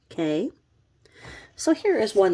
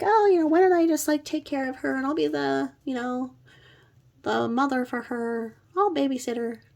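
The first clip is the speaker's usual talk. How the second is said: higher, fast mock-helpful offer; hammed-up eager neighbor volunteering; mock eager babysitter; 7 semitones higher than usual. Neighbor offering to babysit the dirty toddler, mock eager. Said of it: "she's like".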